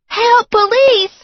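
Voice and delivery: high, loud, drawn-out cry; yelling for police. A narrator's reading. Girlfriend shouting for the police, slow and loud. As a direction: call out slowly for the police. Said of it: "she yelled".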